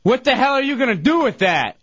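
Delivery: high-pitched mock protest; alarmed challenge. Patient retelling his protest at the needles, high alarmed challenge. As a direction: retell an alarmed objection, voice jumping up. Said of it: "So I say to the guy".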